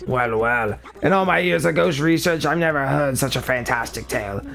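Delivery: a hint of an old professor; Professor E. Gadd voice. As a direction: read it as the eccentric old scientist. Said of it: "harder to read when you're also trying to do a stupid voice".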